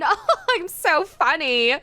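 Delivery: slow self-amused laughing line. Real, not acted. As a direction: laugh through it at yourself. Laughs at own joke.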